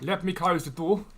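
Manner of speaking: put-on slow, drawn-out Aussie accent; Australian accent. Streamer showing off to the chat while closing a door, Australian accent. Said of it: "How's my Australian accent, guys?".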